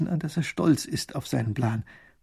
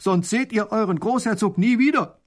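high, loud voice calling up from below; a threat shouted up from a pit; threatening kidnapper; 10 semitones higher, 6 dB louder than usual. Acted. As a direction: menace them from down in the hole. Kidnapper calls up from hole.

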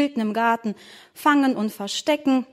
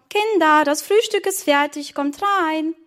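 calling out; 5 semitones higher than usual. Acted. Mother calling children to breakfast, calling out. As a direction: call the kids in for breakfast. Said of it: "rief die Mama".

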